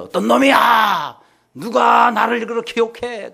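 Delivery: high, drawn-out mock imperial roar; angry shouting. Emperor bursting into the soldiers' tent, acted angry shout. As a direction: bellow it like an outraged emperor. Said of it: "막 소리를 지르니까".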